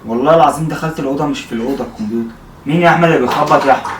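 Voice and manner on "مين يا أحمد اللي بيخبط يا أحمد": calling out. Real, not acted. Calling out over knocking.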